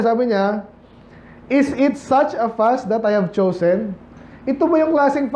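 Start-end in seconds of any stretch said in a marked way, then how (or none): 1.5-4.0 slow scripture reading. Acted. Reads scripture slowly.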